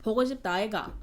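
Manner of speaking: Busan lilt swooping up and down; Busan dialect. Retold or imitated. Showing viewers what the Busan guy said, Busan dialect. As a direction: imitate sing-song Busan Korean. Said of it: "In the Busan".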